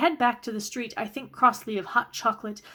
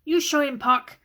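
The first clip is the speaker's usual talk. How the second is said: higher, louder cheering send-off; mild cheer; 6 semitones higher, 5 dB louder than usual. A narrator's reading. Tommy cheering Gabe on as he leaves, excited call. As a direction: egg him on with a bright shout.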